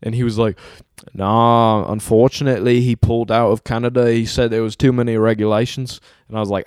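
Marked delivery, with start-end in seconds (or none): 1.1-6.0 amateur British clerk impression; lightly put-on British accent. Clerk explaining to a customer, in a rough British accent. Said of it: "some British guy working the front counter".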